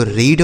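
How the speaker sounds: रीड with one long pure "ee"; long ee vowel. Shown as a demonstration. Teacher recaps the word list, रीड with long ee. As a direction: say रीड as "reed". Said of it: "इसको क्या पढ़ा".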